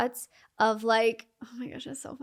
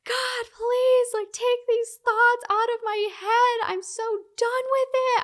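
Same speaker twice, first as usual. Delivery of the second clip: much higher, louder desperate cry to God; retold screaming prayer; 14 semitones higher, 5 dB louder than usual. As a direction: shout the plea, at the end of her rope.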